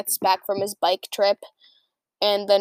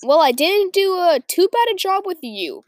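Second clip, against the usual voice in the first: purring proudly; 7 semitones higher, 4 dB louder than usual. Acted. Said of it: "Goldenflower purred proudly".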